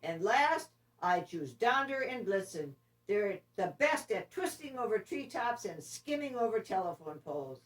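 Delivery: cheerful Santa finishing his list. Acted. Santa announces the last picks, hearty. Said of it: "Santa's team".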